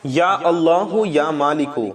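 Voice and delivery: slow, drawn-out invocation of God's names; slow prayerful invocation; dhikr recitation. Shown as a demonstration. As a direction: chant the names slowly and devoutly. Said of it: "یہ ہو گیا دو بار".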